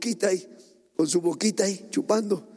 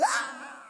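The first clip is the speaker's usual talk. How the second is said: diabolical shriek; 6 dB quieter than usual. Retold or imitated. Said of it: "Gritó un chillido diabólico".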